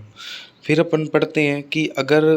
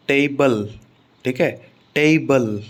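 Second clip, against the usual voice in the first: टेबल with a stressed टे and falling बल; stress on first syllable; slower than usual. Shown as a demonstration. Teacher giving a noun example, टेबल stressed on टे. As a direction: lean on टे in टेबल. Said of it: "टे पर stress आ रहा है".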